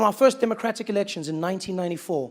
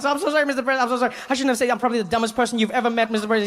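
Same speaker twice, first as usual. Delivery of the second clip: higher and fast, frantic rambling; frazzled apology; 4 semitones higher, much faster than usual. Retold or imitated. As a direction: babble in embarrassed panic. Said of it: "I was like".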